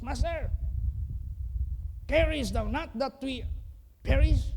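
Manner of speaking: high, loud frightened plea; disciples crying out. Retold or imitated. Disciples shout at Jesus in the storm, high loud plea. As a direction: cry out in panic to the master. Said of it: "Sinigawan niya si Jesus".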